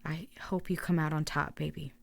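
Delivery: soft whispered farewell; faint whisper. Acted. Dying narrator whispering farewell to her lover Devin, faint whisper. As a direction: breathe it out as a last goodbye.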